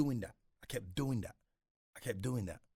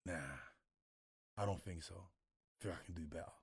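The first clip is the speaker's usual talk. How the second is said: doubtful; 3 semitones lower, 7 dB quieter than usual. Retold or imitated. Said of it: "And I'd be like".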